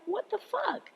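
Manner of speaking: high, soft incredulous gasp; a stunned, high little what the fuck; disbelief. Retold or imitated. Reacting to rude comment.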